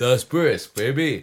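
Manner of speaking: put-on tough-guy movie voice. Repeating the iced tea commercial line: Sylvester Stallone impression. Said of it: "Sylvester Stallone".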